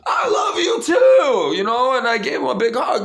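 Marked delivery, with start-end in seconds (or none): 0.1-1.6 very high, loud, slow excited shout; shouting back. Retold or imitated. To the boy on the bike, shouting love back, very high and loud. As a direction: yell it back with joy. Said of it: "I'm like".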